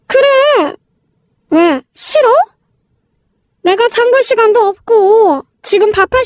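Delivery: lightly voiced, pushy sister-in-law; bossy sister-in-law, scolding. Sister-in-law lecturing a new daughter-in-law on basics, mildly scolding.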